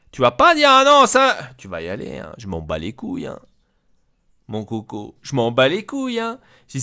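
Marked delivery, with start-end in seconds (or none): 0.1-1.4 high, loud burst of refusal; angry rebuke. Acted. Boss forbidding the player to refuse, angry rebuke. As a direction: shut down the objection at full voice.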